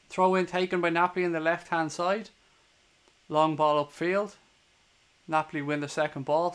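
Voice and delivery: steady live match commentary; play-by-play. Acted. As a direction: call the game as it unfolds.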